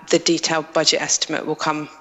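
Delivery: ordinary talk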